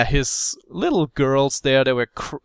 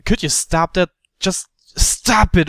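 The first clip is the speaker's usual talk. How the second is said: angry demand; 4 semitones higher, 3 dB louder than usual. Retold or imitated. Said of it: "I was telling him".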